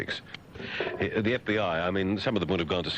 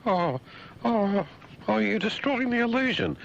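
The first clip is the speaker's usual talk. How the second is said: mock dismay. Listener protests his crude remark, high mock dismay. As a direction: cry out in exaggerated horror.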